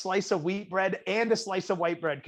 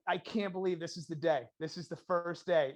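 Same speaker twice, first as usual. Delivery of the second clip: softer, understated retold awe; hushed disbelief; 7 dB quieter than usual. Kid before his first burger, hushed disbelief. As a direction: say it quietly, as if to yourself.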